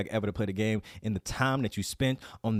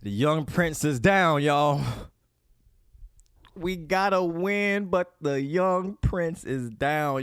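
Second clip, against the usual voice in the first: mock lament; 6 semitones higher, 4 dB louder, much slower than usual. Loud mock wail of grief.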